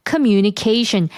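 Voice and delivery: communication very slow, stress on "mu"; stress demo. Shown as a demonstration. Teacher slowly modelling the stress of communication. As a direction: stretch communication, leaning on the second syllable. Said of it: "얘는 강세가 communication 이렇게 있어요".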